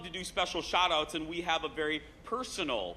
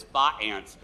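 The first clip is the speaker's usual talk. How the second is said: mock Indiana pronunciation of fiancés; "fa aunts" as a homespun Indiana accent; 7 semitones lower than usual. Host congratulating the floor director, joking Indiana accent. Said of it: "as we say in Indiana".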